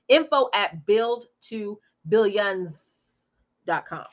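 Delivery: repeated slowly for clarity; slow and clear. Real, not acted. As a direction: dictate each word deliberately. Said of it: "billions with the S at the end".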